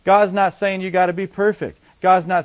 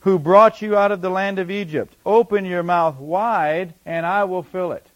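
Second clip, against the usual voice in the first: measured, solemn reading of a psalm; solemn scripture reading. Acted. Reads Psalm 81 aloud.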